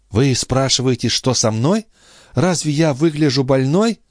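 put-on young sister making light of her illness; sister's voice. A narrator's reading.

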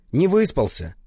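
ordinary delivery

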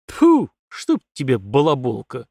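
slow exasperated curse, spat out; cursing. Acted. Colonel swears at his chattering daughter, exasperated. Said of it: "выругался полковник".

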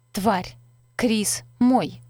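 loud jealous scream; furious shout. Acted. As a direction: shriek it at the rival. Jealous woman attacks Eliza.

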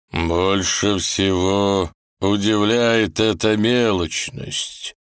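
put-on slow, ghostly old man voice; otherworldly voice. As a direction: speak slowly from beyond. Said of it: "глубоким потусторонним голосом".

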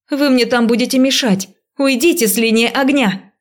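high urgent shout. A narrator's reading. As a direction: yell it to clear the line. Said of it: "крикнула я". (крик)

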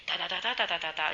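rapid nonsense syllables imitating a rant; half-hearted imitation of a ranting neighbour; mock Arabic shouting. Neighbour yelling at her in Arabic, mildly mimicked rant. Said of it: "Me empieza a gritar en árabe".

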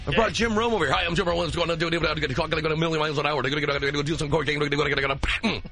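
fast, hyped sportscaster patter; cheesy Jim Rome. Retold or imitated. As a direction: rattle it off like an overexcited radio host. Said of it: "that's my cheesy Jim Rome impression".

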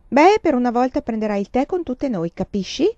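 mother insisting to daughter, firm; insistent mother. Acted. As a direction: lay down the law.

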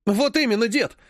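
cheered up and pushing his point; eager. Acted. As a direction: jump in, thrilled to be backed up. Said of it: "воодушевился Владик".

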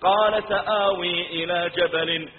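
slow melodic tilawa; Quran recitation. Acted. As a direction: recite slowly, drawing out the long vowels. (تلاوة قرآنية مرتلة)

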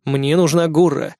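slow and serious. Acted. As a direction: say it flatly, no joking. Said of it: "ответил я серьёзно".

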